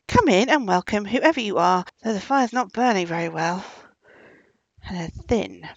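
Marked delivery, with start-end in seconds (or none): 0.1-3.6 called out loud and brave; bold call. A narrator's reading. Old woman calls bravely to the stranger at her door, loud. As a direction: push the voice through the door, unafraid. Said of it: "she called out bravely".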